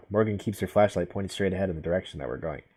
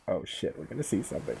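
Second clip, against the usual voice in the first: hushed, nervous whisper; scared whisper; 2 semitones lower, 9 dB quieter than usual. Real, not acted. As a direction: whisper it like something's lurking. Scared whisper before jump scare.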